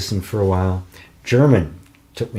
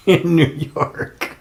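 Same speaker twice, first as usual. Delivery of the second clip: laughing; 9 semitones higher, much slower than usual. Real, not acted. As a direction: laugh breaking into the words. Laughs at his family tale.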